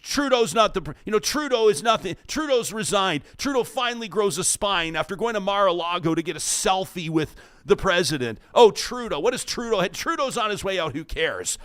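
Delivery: imitating listeners who dismiss Trudeau; mocking commenters. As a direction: scoff at Trudeau as the commenters would. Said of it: "You were saying".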